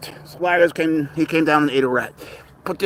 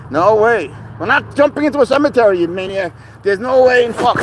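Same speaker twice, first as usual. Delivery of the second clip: much higher, louder refusal; high, alarmed protest; 7 semitones higher, 3 dB louder than usual. Real, not acted. Owner stopping his cat leaping into a cemetery, high alarmed protest. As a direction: shriek a half-laughing no way.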